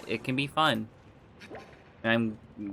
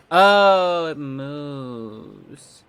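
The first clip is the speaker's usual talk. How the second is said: startled; 8 dB louder, much slower than usual. Real, not acted. Startled by something moving onscreen.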